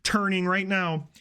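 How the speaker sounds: high start, settling as she goes; happy excitement. Retold or imitated. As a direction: imitate her giddy, high-pitched gushing. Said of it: "she's, like, so happy and so excited".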